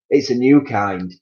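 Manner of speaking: a hint of a sly wife; casual cover story; lightly voiced Missus Twit. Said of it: "Missus Twit said".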